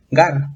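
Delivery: "gar" as a punched lone syllable; stressed last syllable. Shown as a demonstration. Teacher shows where the accent falls, stressed last syllable. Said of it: "aquí hay acento en la última sílaba".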